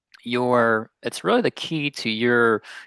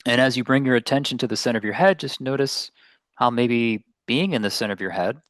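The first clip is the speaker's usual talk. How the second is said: unhurried meditation guidance with long pauses; guided meditation; 2 semitones higher than usual. Real, not acted. Meditation teacher settling listeners into their seats, guided meditation. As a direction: gently lead listeners inward, leaving space between phrases.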